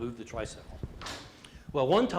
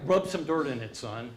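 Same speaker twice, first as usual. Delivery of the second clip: tough dad. Retold or imitated. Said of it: "Anybody have that dad".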